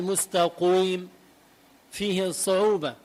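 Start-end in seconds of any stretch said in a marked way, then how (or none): 0.0-1.1 مستقيم with pursed "qouiim"; over-round the ق of مستقيم; wrong rounded ق. Shown as a demonstration. Teacher showing the mistake, مستقيم with rounded ق. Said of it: "ما ببقى ضامم تمي بشكل".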